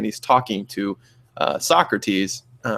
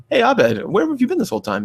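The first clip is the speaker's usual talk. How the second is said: much higher, bright mock call-out; imitating characters; 12 semitones higher than usual. Retelling a Community gag, high mock call to Abed. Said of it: "they're like".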